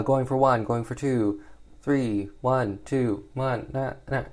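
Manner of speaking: light mock auctioneer rattle. Toto auctioning slaves in a mock auctioneer call. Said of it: "in, like, the auctioning voice".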